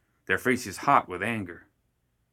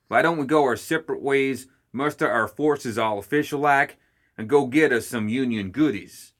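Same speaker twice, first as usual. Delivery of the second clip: Ma sounding higher and brighter as she proposes; chummy gremlin Ma; 4 semitones higher, 4 dB louder than usual. Acted. Ma offering a truce to Summer, higher and chummy. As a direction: sweet-talk like a cunning gremlin.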